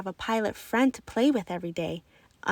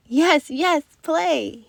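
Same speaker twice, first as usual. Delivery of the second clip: eager, louder happy reply; excited yes; 5 semitones higher, 5 dB louder, much slower than usual. A narrator's reading. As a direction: blurt it out gladly. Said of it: "he answered".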